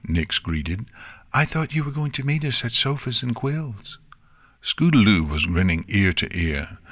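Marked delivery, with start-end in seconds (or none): 1.3-4.0 put-on high young pony voice; little filly querying the plan, pitched up; puzzled filly. A narrator's reading. Nix greets friends she expected elsewhere, high puzzled filly voice.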